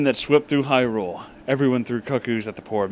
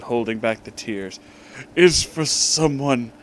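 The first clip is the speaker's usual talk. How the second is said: mock tearful plea; 4 semitones higher, 7 dB louder than usual. Dampé pleads, holding back tears.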